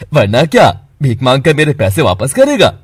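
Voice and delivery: loud, threatening; angry taunt. Acted. Friend provoking Keshav before the fight, loud and angry. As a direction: snarl the threat.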